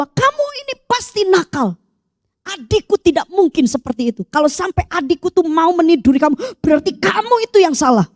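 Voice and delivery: rising, emphatic accusation; mock scolding mother. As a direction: imitate a mother blaming her child. Mother's angry accusation, retold. (menirukan ibu yang memarahi)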